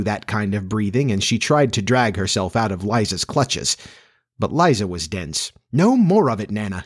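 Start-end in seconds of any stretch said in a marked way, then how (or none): 5.7-6.8 stern. Acted. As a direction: scold the dog sternly. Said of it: "she said sternly".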